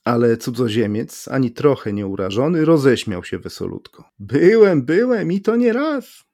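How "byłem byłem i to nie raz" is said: high, gleeful cry; amused, singing-high outburst; merry exclamation. A narrator's reading. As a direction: exclaim it as if laughing, pitched way up. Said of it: "wykrzyknął ze śmiechem".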